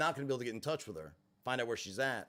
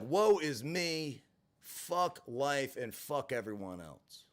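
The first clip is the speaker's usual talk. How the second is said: mock self-pity; much slower than usual. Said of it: "So I'm pissed".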